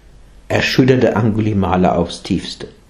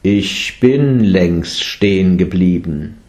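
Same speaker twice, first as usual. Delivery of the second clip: slow, unhurried calm; 3 semitones lower, slower than usual. Acted. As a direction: answer serenely, taking your time. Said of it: "antwortete der Buddha gelassen". (gelassen und langsam)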